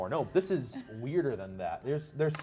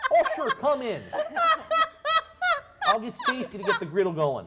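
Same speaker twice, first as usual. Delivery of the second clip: high, loud, hearty Minnesotan dwarf greeting; 8 dB louder than usual. Acted. Dwarf deli seller greeting passing adventurers, Minnesotan accent. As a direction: welcome customers with a big Midwestern dwarf voice. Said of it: "The Minnesotan accent".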